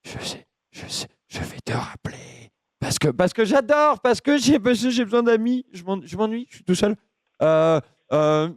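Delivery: low, halting, lonely oddball; dopey confused voice. Acted. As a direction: play a muddled lonely man rambling. Keeps confused caller character.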